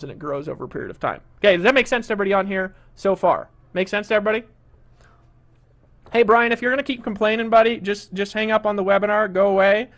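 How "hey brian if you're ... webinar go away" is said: louder, firm telling-off of a heckler; annoyed scolding. Real, not acted. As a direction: shut down the complainer, firmly. Host scolding complaining webinar attendee.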